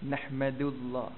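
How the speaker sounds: "Nahmadullah" with a soft dal, slow and quiet; soft Arabic dal. Shown as a demonstration. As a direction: say "Nahmadullah" gently, tongue tip on the dal. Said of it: "Dia sebut macam mana?".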